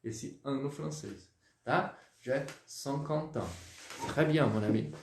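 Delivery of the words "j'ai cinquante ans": J'ai cinquante ans with the t of cinquante linked into ans; French liaison. Shown as a demonstration. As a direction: link cinquante and ans smoothly, slowly. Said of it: "Eu já jogo como se fosse uma liaison".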